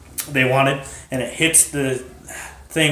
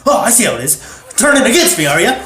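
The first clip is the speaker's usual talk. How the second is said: high, loud accusation with a laugh in it; mock indignation; 9 semitones higher, 7 dB louder than usual. Perfect Prop to teammate who tripped him, mock indignation. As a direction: act betrayed, half laughing.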